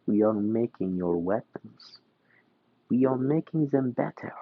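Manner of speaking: lightly put-on Russian accent, taunting; Russianish accent. Yakuza boss taunting the Merchant of Death, light Russian accent. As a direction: sneer it in a loose Russian accent. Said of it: "I'm just gonna do it in a Russianish accent".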